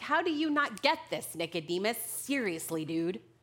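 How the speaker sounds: prideful, arrogant know-it-all voice. Reading a scripture reply to nicodemus aloud, in a mock-arrogant know-it-all voice. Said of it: "with my religious and prideful know-it-all arrogant voice".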